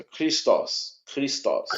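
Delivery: "Christos" with a hard KR onset, slowly; CH before R. Shown as a demonstration. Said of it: "muda um pouquinho".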